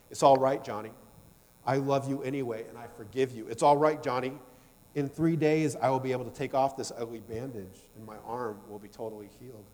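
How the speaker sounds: tender acted forgiveness; soothing mother. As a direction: gently comfort a frightened child. Mother comforts frightened, crying child.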